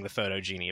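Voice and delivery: photogeny said American-style, ending like genie; Americanized photogeny, foh-doh-jee-nee; anglicized pronunciation. Shown as a demonstration. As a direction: say photogeny with an English j. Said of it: "I will be saying".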